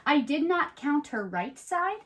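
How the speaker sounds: storybook read-aloud, lively and even; reading to children. Acted. Host reads the rhyming book to young viewers, in a storybook voice. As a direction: tell it like a bedtime rhyme.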